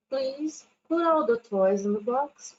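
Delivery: teacher showing the gentler please version, polite; polite request. Shown as a demonstration. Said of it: "ser um pouquinho mais ser educado, ameno".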